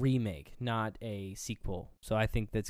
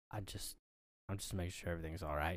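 flustered mumble; 5 semitones lower, 12 dB quieter, faster than usual. Retold or imitated. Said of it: "He's like".

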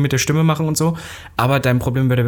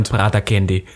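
sultry perfume ad; 5 semitones lower, slower than usual. Pretend. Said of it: "Aber ich liebe das so".

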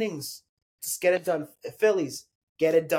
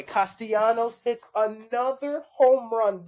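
real amazement; 4 semitones higher than usual. Real, not acted. Sports host interrupts himself as Castellanos homers, amazed. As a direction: blurt out the home run news, pitch climbing. Reacting live to a home run.

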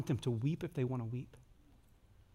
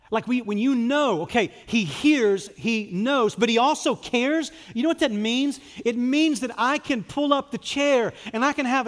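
higher and louder, driving the point home; full-force preaching; 9 semitones higher, 9 dB louder than usual. Acted. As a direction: preach it out with rising fire.

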